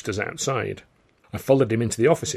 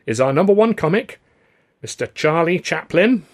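high, loud showman's billing; grand introduction; 7 semitones higher, 5 dB louder than usual. A narrator's reading. Alf presents Stan as number one comic, announcing. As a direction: draw out the name like an announcer.

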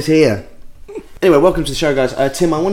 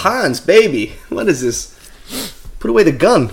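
higher, louder film line; film villain; 6 semitones higher, 4 dB louder than usual. Pretend. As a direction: deliver it like an action movie. Quoting a film scene.

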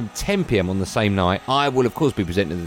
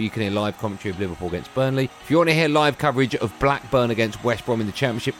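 rushed listing without pausing; all in one breath. Shown as a demonstration. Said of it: "So here we go, in one breath".

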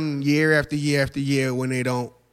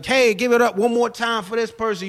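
host hype voice; 6 semitones higher than usual. Retold or imitated. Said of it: "You know how to".

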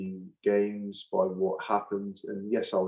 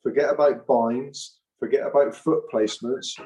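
louder, building passion, hammering each forget; rally the pack with raw passion; fired-up rant; 3 semitones higher, 6 dB louder than usual. Real, not acted. Impassioned rant about scrum.

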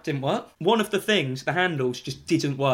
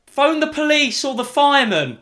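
high, loud urgent plea; re-enacted desperate holler; calling out; 9 semitones higher, 7 dB louder than usual. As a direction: shout instructions out of a window. Acting shouted plea to rescuer.

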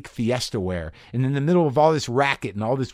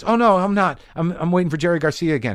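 relieved realization; 7 semitones higher, 4 dB louder than usual. Retold or imitated.

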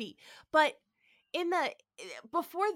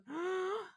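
mock gasp; 8 semitones higher, 7 dB quieter than usual. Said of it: "breathing hard".

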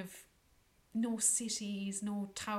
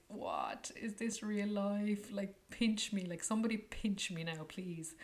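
dreamy awe; 2 semitones higher than usual. Retold or imitated. Lying under falling stars, dreamy awe. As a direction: marvel at the moment.

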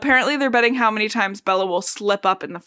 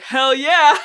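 excited cheer; 5 semitones higher, 6 dB louder than usual. Retold or imitated. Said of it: "Emmett's like".

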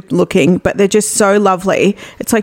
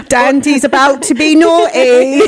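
laughing tease; 5 semitones higher, slower than usual. Real, not acted. Teasing with a laugh.

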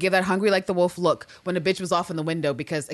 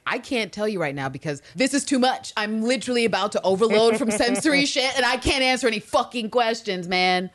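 overwhelmed; 5 semitones higher than usual. Retold or imitated. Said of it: "she's just sort of like".

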